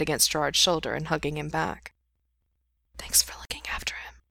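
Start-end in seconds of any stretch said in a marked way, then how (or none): 3.0-4.2 soft grateful whisper, no voice. Acted. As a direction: breathe the thanks close to his ear. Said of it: "Gerard whispers".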